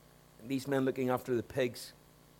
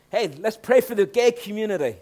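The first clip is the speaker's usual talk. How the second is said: mock pious cheer; 7 semitones higher, 9 dB louder than usual.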